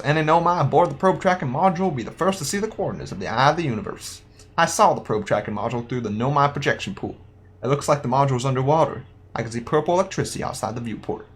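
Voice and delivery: lightly voiced cowboy. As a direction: read it out with a hint of cowboy accent. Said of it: "like, a cowboy voice".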